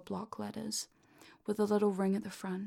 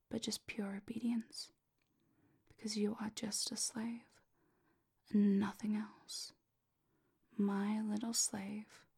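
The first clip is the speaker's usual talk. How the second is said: whisper in left ear. Acted. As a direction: whisper it right into the listener's ear. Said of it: "As I whisper into your ear".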